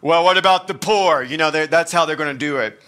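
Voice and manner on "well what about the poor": a louder, scoffing "what about the poor"; hammed-up fake concern for the poor; mock indignant objection. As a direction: sneer it like a self-righteous disciple. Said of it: "fabricate it with".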